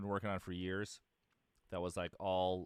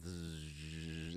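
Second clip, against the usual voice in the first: imitated buzz; 3 semitones lower, 7 dB quieter than usual. Imitates the buzzing vision.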